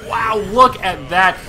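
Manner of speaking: excited shout. Real, not acted. Caster sees big play.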